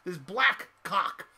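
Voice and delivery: black stretched slow and heavy; drawn-out emphasis. Shown as a demonstration. Comic retelling to audience, black drawn out slowly. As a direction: linger on black as he builds the image. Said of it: "almost like Wesley Snipes".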